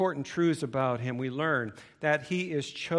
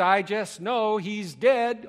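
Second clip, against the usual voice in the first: mock moan; 6 semitones higher, 4 dB louder, slower than usual. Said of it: "she moaned".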